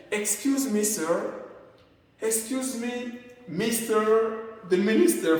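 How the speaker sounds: high excuse me sir; formal polite call. Shown as a demonstration. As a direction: address an official formally. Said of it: "Et c'est formel".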